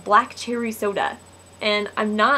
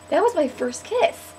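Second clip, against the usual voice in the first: mock dismay; 7 semitones higher than usual. Retold upset to her friend.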